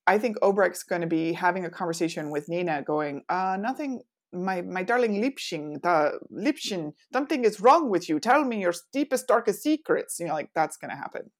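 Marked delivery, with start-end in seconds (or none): 3.3-10.2 playful put-on German accent. Obrecht questioning Nina about her secrets, mock German accent. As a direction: coax it out in a hammed-up German accent. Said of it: "That was my German accent".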